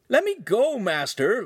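put-on high, loud teen protest; shouting. A narrator's reading. Lincoln to the master from a headlock, shouting. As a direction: shout to be freed, pitch leaping. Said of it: "Lincoln shouted".

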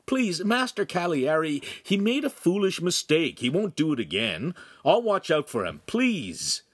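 high-pitched anxious plea; urgent pleading. A narrator's reading. Friend intercedes with furious master, pleading urgently. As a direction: beg him to let go.

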